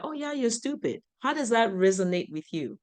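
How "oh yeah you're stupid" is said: mocking insult. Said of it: "when somebody says that".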